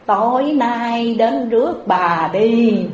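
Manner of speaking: slow mock-solemn voice from hiding; a boy pretending to be the Buddha, drawn out; hidden novice's fake Buddha voice. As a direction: novice hiding under the altar lightly plays the Buddha, slow. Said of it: "mới cất tiếng nói như thế nào".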